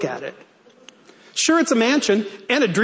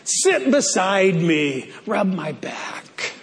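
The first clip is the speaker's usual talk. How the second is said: seductive voice. Acted. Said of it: "it's not a very sexy voice".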